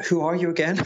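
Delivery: French-accented mock question. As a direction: ask it in a put-on French accent, high and teasing. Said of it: "he puts on this French voice".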